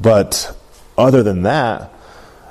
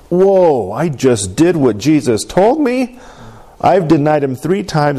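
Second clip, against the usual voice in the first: slightly higher, mildly startled retelling; stunned realization; 4 semitones higher than usual. Retold or imitated. Preacher voicing Peter hearing the rooster, mildly stunned. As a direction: voice a dawning realization, drawn out at first.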